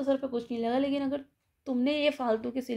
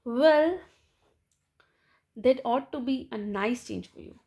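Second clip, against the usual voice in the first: tart retort; 4 dB louder, much slower than usual. Acted.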